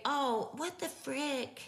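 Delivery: slow high "Oh, what the frick?"; a slow, mock-prim "frick"; drawn-out minced oath. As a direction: stretch the frick out slowly. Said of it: "when you say".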